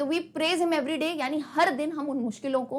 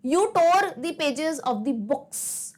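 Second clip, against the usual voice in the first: slow poem reading; much slower than usual. Shown as a demonstration. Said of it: "बुक्स, बुक sound भी नहीं था".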